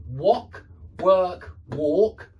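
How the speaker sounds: loud, separated wok, work, walk; contrasting vowels. Shown as a demonstration. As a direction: punch each word, changing only the vowel. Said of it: "so these are different".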